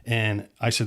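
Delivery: normal talking voice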